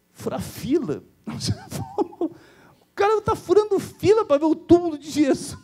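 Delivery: high, laughing incredulity; laughing disbelief. Real, not acted. Pastor laughing at queue jumpers. (rindo, incrédulo)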